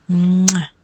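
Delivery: blown kiss. Real, not acted. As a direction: send a kiss to a sweetheart. Signing off with a kiss. (kecupan sayang "mwah")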